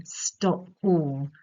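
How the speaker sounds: equal stress on both "stop" and "all"; spondee. Shown as a demonstration. Teacher showing students two stressed syllables, stress on both "stop" and "all". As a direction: land firmly on "stop" and on "all". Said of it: "two stressed syllables".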